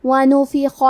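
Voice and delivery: ونفخ with all three vowels clearly voiced, the خ heavy from the throat. Shown as a demonstration. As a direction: sound out ونفخ, every vowel distinct. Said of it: "ہم یہ تینوں حرکات کو ظاہر کریں گے". (ونفخ کی تینوں حرکات واضح)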